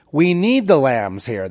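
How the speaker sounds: a light hint of desperate townspeople; mock pleading townsfolk. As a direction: beg like the townsfolk who drove you off. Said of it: "they'll say".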